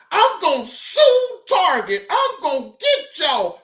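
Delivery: high, lightly mocking imitation of defiance; mock threat. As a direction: threaten as the indignant suspect, in jest. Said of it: "it went from suing Target to".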